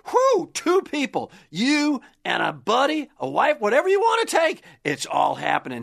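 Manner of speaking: hyped-up radio ad read; booming prize announcer. Acted. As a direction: sell the prize like a game show.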